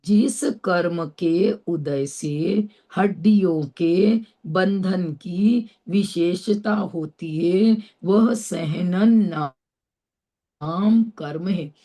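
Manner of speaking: slow definition reading. Acted. Reads the definition aloud.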